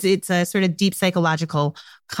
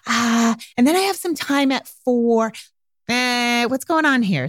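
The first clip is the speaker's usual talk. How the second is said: acted wishy-washy guesser; hesitant hedging; 4 semitones higher than usual. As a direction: stall with a long "oh" and hedge.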